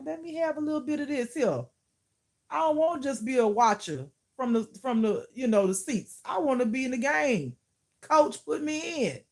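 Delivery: high, eager mock begging; playful pleading. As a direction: plead like a benched player wanting in. Begging God to let her play.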